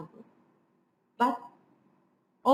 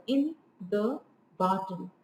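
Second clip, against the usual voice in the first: "in the" light, stress on "barton"; two light beats, then land on "barton"; anapest stress; 3 dB quieter than usual. Shown as a demonstration. Lecturer pointing out two unstressed syllables, anapest stress. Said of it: "there are two unstressed here".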